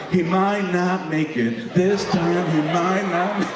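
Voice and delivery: slow solemn mock worry; worried mom. Mom at the dishes predicting his fate, slow mock solemn. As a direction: say it slowly like a grim verdict. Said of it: "She's like".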